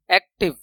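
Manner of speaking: एक्टिव in two beats, एक and टिव; broken into syllables. Shown as a demonstration. Teacher repeating the two-syllable example, एक्टिव split. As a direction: pause briefly before टिव in एक्टिव. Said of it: "टूट रही है आवाज".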